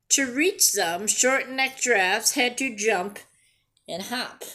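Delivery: storybook voice, lively and clear; reading to children. A narrator's reading. Teacher reading a picture book to her class, lively storytelling. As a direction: read it like a picture book to kids.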